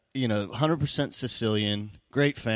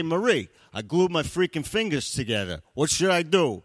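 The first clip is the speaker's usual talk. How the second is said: raised-pitch husband calling for help; panicked husband; 6 semitones higher than usual. Retold or imitated. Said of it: "I go upstairs and I say".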